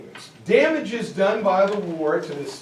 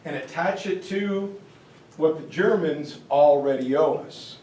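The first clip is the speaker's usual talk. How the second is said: lightly voiced British gent, breezy; a hint of a jolly British chap; mock British accent; 3 semitones lower than usual. British passing their debt to Germany, in a light British accent. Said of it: "So the British say".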